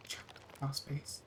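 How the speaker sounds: breathy spooky whisper. A narrator's reading. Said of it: "it whispered".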